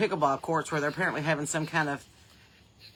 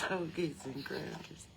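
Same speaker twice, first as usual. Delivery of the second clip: softer repeat; 11 dB quieter, slower than usual. Shown as a demonstration. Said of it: "repeated deliberately".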